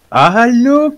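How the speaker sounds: sudden yelled command; shout. Real, not acted. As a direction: yell it out. Teammate urging grenade, yelled.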